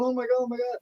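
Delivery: high-pitched imitation of panic; mock panic. Young referee cornered by a yelling veteran, mock panicked. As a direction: squeal it like a cornered rookie.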